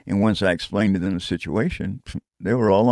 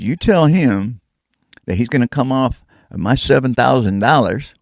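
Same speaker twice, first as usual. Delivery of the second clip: threat; 3 semitones higher, 4 dB louder than usual. Retold or imitated. Threatening over phone.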